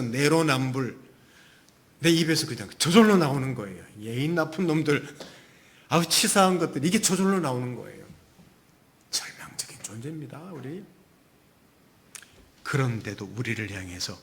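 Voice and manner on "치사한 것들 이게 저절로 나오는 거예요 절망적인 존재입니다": normal talking voice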